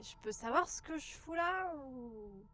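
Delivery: slow, raspy questioning; rough raspy voice, dazed. Pretend. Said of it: "je vais faire la voix rauque".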